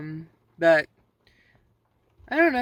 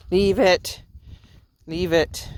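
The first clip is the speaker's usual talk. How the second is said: firm command; 6 dB louder, slower than usual. Real, not acted. Dog going for cow piles.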